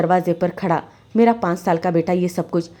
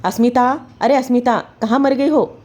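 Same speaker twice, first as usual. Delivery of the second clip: raised, higher angry shout of her name; angry husband calling; 5 semitones higher than usual. Acted. Husband yelling for his wife, angry call. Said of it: "मेरे पति की गुस्से भरी आवाज़".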